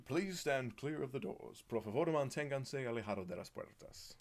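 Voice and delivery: slow, even recorded announcement, English then Spanish; like the automated monorail PA at the doors; monorail announcer voice. Pretend. Vlogger doing the monorail announcement for chat. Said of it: "give us".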